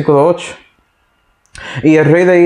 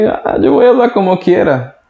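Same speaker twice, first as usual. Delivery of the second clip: sarcastic. Acted. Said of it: "Voy a ser sarcástico contigo".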